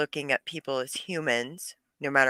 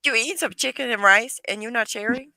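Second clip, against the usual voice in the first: mock outrage; 8 semitones higher, 5 dB louder, faster than usual. Real, not acted. Mock outrage at friend eating.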